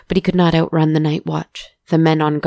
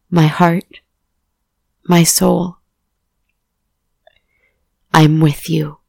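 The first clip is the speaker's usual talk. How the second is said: fervent vow; 5 dB louder than usual. A narrator's reading. Boy vows loyalty to friend.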